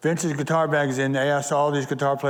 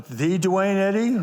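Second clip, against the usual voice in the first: higher, drawn-out rising question on "The Duane Eddy?"; starstruck disbelief; 5 semitones higher, slower than usual. Retold or imitated. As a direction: ask it slowly, amazed it's really the star. Operator amazed at famous caller's name.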